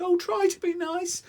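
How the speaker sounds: whimpering lion. Acted. The scared lion begging the mouse, whimpering. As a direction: plead in terror. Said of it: "he whimpered".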